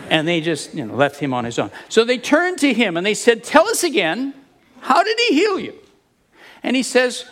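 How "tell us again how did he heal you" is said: prying Pharisee. Retold or imitated. Pharisees interrogate the healed man.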